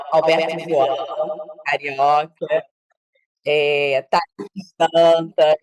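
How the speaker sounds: very slow, spaced names; slow and deliberate. Real, not acted. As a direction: read the names out slowly over the echo. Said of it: "então eu vou falar paulatinamente".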